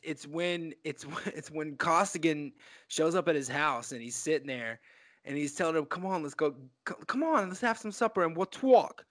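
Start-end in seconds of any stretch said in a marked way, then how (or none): 5.9-9.0 a lightly mocked bad Boston accent, rising on the second come on. Quoting Sheen's worst accent moment, a mock Boston accent. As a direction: lay on a bad Boston accent like a fumbling actor. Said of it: "the worst moment for the accent".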